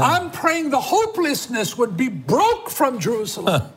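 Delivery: earnest, insistent intercession in measured phrases; fervent prayer. Real, not acted. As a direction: declare a prayer over the viewers. Prayer for families continues.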